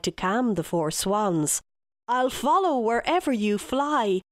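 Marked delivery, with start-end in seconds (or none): 2.1-4.2 remorseful father, pitch lightly raised; pleading cry. Acted. King apologising to his swan children, mild pleading cry. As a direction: beg forgiveness with a touch of anguish. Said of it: "he cried".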